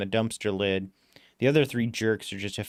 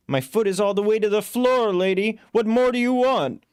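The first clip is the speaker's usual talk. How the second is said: much higher, louder exasperated cabbie; exasperated driver; 11 semitones higher, 5 dB louder than usual. Acted. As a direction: throw it back at her. Driver snaps back in chase.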